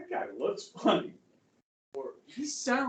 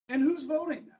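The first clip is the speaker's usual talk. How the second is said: quizzing voice; 8 semitones higher, 4 dB louder than usual. Acted. Teacher quizzing class, mock voice.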